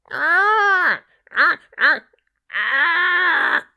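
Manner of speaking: high, loud, harsh caws; shrill cawing crow. Acted. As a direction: caw like a crow trying to sing. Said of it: "As she cawed and she croaked".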